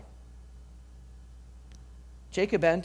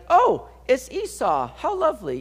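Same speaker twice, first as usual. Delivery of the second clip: mock delighted Isaac; 7 semitones higher, 4 dB louder than usual. Preacher mocking Isaac falling for the disguise, mock delighted. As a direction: play a gullible father, pitched way up. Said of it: "Isaac's just gonna be like".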